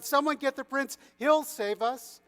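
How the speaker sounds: high, loud, urgent cry; shouting. A narrator's reading. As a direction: call out desperately for rescue. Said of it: "he shouted".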